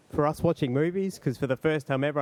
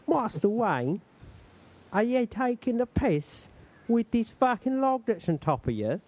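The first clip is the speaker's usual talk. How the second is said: put-on Cockney-accented Michael Caine, pitched higher, blustering; Michael Caine impression; 6 semitones higher than usual. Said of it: "my Michael Caine impersonations".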